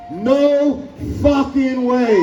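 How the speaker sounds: slow, emphatic shout; slow shouted slogan. Real, not acted. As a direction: drag out each word. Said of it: "that sign over there says".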